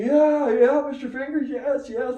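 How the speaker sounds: fanboy rookie pitcher, breathless with excitement; starstruck eagerness. Retold or imitated. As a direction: squeal it like awestruck rookies meeting their hero.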